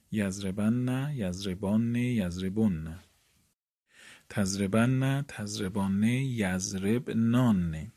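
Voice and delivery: slow, drawn-out chant of verb forms; recited conjugation. Shown as a demonstration. Teacher chanting the paradigm to students, slow recitation. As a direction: chant each form for the class.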